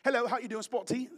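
lightly put-on British accent; a quick playful mock British greeting. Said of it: "talk to a British person".

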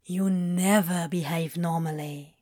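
low-key fond teasing; understated affection; hint of fondness. A narrator's reading. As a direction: tease a friend gently. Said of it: "a hint of fondness in his tone".

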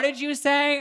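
high, drawn-out puzzled question; mock confusion. Storyteller imitating girls at the register, confused high question.

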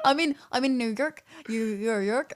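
giggly, fumbling American accent; American accent attempt. Shown as a demonstration. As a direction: stumble laughing through an American YORK. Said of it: "Say New York in an American accent".

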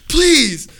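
loud, high, slow mock prayer; imitated pleading preacher. Pastor prays youths away from streets, hammed-up loud plea. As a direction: wail it like a pastor begging heaven.

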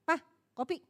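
short, offhand coffee call; singkat seadanya. Shown as a demonstration. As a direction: toss it out briefly, no softness. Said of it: "Apa gini". (menawarkan kopi seadanya)

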